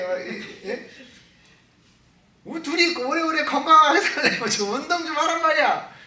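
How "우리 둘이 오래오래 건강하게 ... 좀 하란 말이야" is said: mock pleading scold, raised pitch; exasperated comic plea; imitated annoyed husband. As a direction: nag your wife half in jest. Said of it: "여사관한테 짜증내요".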